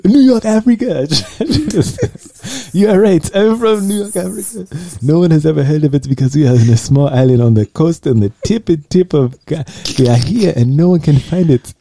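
a pretend villager putting on a Madagascar accent, loud and high. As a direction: ham up a Madagascar lemur king accent. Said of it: "your Madagascar voice".

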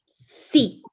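put-on a loud, grumpy little boy's yes; sulky child. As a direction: bark it like an angry sleepy kid. Niño enojado recién despierto. (niño enojado que grita sí)

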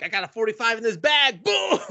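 loud, high, explosive delivery; triumphant shout. Retold or imitated. Old maid pulling her gun on the bully, shouting. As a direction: shout it, bursting up into the bang.

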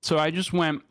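talking with a mouthful of food; words round a bite; mouth full. Real, not acted. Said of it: "sorry, I'm eating again".

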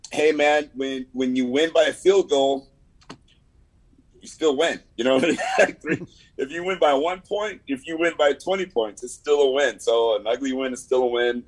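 rally the team after a narrow win; upbeat pep talk. Real, not acted. Sales rep cheering his team after a close win, upbeat.

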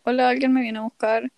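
high, laughing call for help; laughing plea for help. Retold or imitated. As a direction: beg for rescue through a laugh. Texting friends for help.

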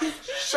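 soft hissed shush; mock hush over a secret deal; shush, half laughing; imitated conspiratorial shush. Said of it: "Steve talking about".

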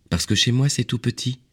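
put-on high child-like explanation; little prince. A narrator's reading. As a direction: answer in a small boy's high voice.

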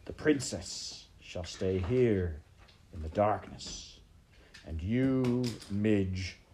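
slow, drawn-out decree; menacing villain rat. Acted. Rat condemning maid and princess to darkness, slow menace. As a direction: pronounce it with deliberate menace.

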